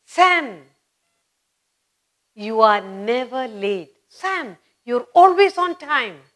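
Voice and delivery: delighted praise. Retold or imitated. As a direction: cheer on a punctual pupil. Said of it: "You'll say".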